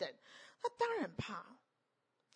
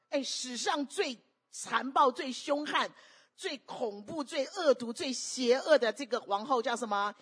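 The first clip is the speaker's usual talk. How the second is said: rising emphatic build-up; 3 semitones higher, 5 dB louder, slower than usual. Real, not acted. Preacher building up the wicked queen.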